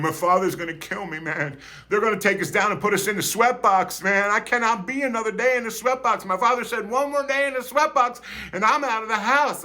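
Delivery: high, fast, lightly voiced scared boy; mock panic about his father; panicked tough kid. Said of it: "Dago's crying, going".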